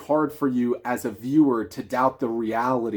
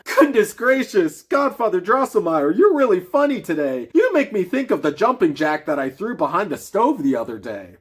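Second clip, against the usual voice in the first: put-on much higher and louder, a cheeky boy; boy crying out; 6 semitones higher, 4 dB louder than usual. Fritz laughs at his godfather, a high, loud boy's voice. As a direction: tease the godfather, bubbling over. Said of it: "with loud laughter and cried out".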